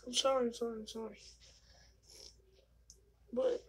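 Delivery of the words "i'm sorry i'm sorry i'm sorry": soft, fading apologetic murmur; sheepish apology. Retold or imitated. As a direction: mumble sorry, trailing off. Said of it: "I was like".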